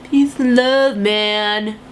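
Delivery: laid-back hippie drawl. Pretend. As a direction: play a mellow hippie. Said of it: "God, I sound like a hippie again".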